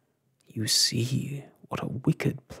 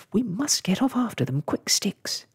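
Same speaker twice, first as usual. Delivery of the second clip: high, urgent call; storybook urgency; crying out; 9 semitones higher, 3 dB louder than usual. A narrator's reading. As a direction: cry it out pitched up, urging haste. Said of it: "he cried".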